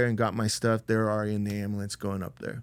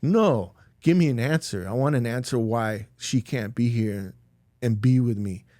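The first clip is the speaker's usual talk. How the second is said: retold anger, pushing back with raised pitch at first; demanding and indignant, a touch of anger; angry. Father demands an answer from the doctors, retold anger. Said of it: "I'm just angry".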